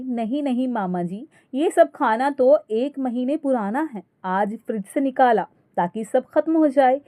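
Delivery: mildly sugary, innocently cheeky; mock sweetly. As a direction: say it sweetly as if nothing's wrong. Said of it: "आशा बड़े प्यार से बोली". (बड़े प्यार से, हल्के तंज़ के साथ)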